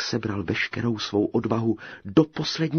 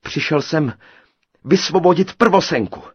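bravely; 8 semitones higher, 11 dB louder than usual. A narrator's reading. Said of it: "řekl Krejčí srdnatě".

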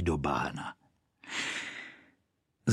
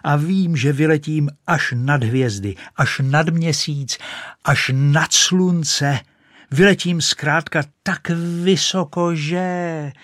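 higher, louder rising boast; building excitement; 6 semitones higher, 4 dB louder, slower than usual. Acted. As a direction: swell with grandeur toward the sky. Rocket's grand boast before launch.

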